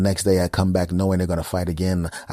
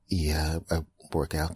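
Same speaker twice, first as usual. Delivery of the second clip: hesitant caller; 3 semitones lower, 5 dB quieter than usual. Pretend. Caller voiced quietly.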